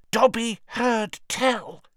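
high, slow, rasping whisper of an elf; hoarse elf. A narrator's reading. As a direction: rasp it out in awe. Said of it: "he said hoarsely".

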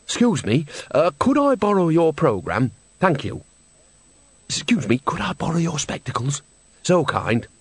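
a lightly voiced cheery old woman; breezy, cheeky asking; old woman cadging a programme and spectacles, lightly cheery; chirpy borrowing. A narrator's reading. Nanny borrowing from neighbour.

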